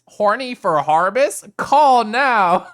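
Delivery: loud, slow hyped ad read; infomercial voice. Pretend. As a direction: pitch it like a TV ad. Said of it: "more like an infomercial".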